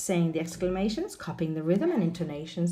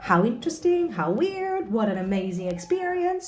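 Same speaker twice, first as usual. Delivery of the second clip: excited exclamations; 4 semitones higher than usual. Shown as a demonstration. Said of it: "a chance for you to practice".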